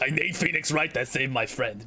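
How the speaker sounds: low, rough smoker's rasp. Shown as a demonstration. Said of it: "I wanna make her, like, a smoker".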